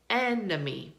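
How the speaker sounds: "enemy" as EN-uh-mee; strong EN, weak uh in "enemy"; schwa in enemy. Shown as a demonstration. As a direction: reduce the middle of "enemy" to uh. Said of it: "So do we hear that?".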